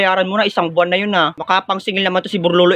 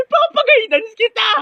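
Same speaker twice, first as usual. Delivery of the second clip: very high, wailing battle cry; hammed-up threat; 12 semitones higher than usual. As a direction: threaten in a slow, high comic wail. Acted fight after insult to parents. (matinis at pahabang pagbabanta)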